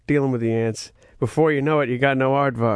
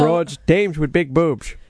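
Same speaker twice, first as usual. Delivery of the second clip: put-on old-timey slang; slower than usual. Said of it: "If this was, like, nineteen forty-two".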